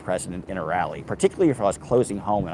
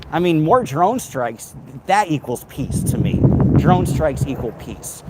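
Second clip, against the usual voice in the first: slow, higher, deadpan mockery; slow sarcasm; 4 semitones higher, 4 dB louder, slower than usual. Real, not acted. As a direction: drag it out like a bitter joke. Sarcastic point about drone strikes.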